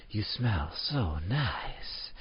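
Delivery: very slow, drawn-out compliment; blunt extreme. Shown as a demonstration. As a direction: stretch it out, an overly slow line. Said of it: "these are the extremes".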